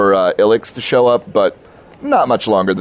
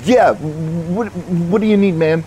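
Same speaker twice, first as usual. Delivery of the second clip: Jason's voice; 9 semitones higher than usual. Acted.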